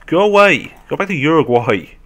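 high, loud plea; exasperated shout. Real, not acted. Player chased by zombies, shouting them off. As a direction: yell at them to leave.

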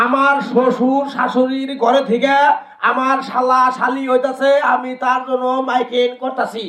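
loud, calling out over the mic; loud announcement. Shown as a demonstration. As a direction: announce it loudly to the whole area. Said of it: "father-in-law demonstrates mic announcement".

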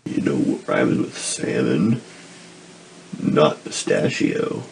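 deep voice. Pretend. Deep put-on voice.

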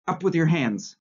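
high, loud mock command; savage yell. A narrator's reading. Boy menacing Winston with a toy pistol, savage yell. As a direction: yell it like a boy playing gunman. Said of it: "yelled a savage voice".

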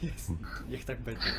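ordinary talk, nothing marked

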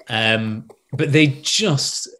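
ordinary talk, nothing marked

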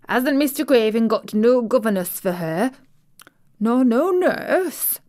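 concerned mother asking, lightly voiced; Martha's mother. Maid quoting her mother's worry, lightly voiced Yorkshire mother. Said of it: "She said".

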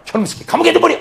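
loud, high barked command; angry order. Acted. 보디발 장군이 요셉을 감옥에 넣으라며 높고 크게 호통. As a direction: throw him in jail, furious.

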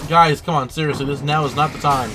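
loud annoyed complaint; exasperated yell. Real, not acted. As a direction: yell at them, fed up. Annoyed at enemies.

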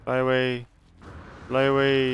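urgent shout. Real, not acted. Urging escape in game.

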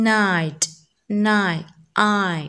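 night said carefully, then stripped down to the bare glide I; diphthong breakdown. Shown as a demonstration. Teacher showing the diphthong as one vowel, careful separated sounds. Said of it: "For example".

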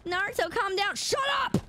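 high shouted outburst; playful shouting at chat; mock yell. Real, not acted. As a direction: yell it, pitch jumping up. Streamer yelling at chat.

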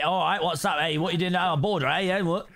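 lightly played Cockney geezer; mock-Cockney challenge; Cockney sheep. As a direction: put on a bit of confrontational Cockney. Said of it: "Red sheep's Cockney sheep".

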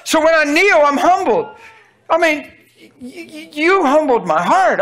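high, loud preaching cry; full-force pulpit preaching. Acted. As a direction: preach it out with fire.

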